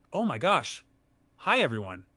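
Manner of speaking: hammed-up squeaky girl; girly voice. AI faking a girly voice for the streamer, hammed-up. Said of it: "talk in a girly voice".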